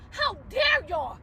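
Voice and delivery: slow, drawn-out outraged shout; shouting down the critics online; furious shout. Real, not acted. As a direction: spit out each word in real outrage.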